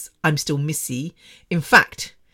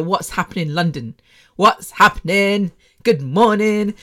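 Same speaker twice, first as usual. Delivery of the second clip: lightly put-on London street greeting, growing louder; street lingo; 3 semitones higher, 4 dB louder than usual. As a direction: greet them like a street-slang radio host. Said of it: "spoke in that kind of street lingo".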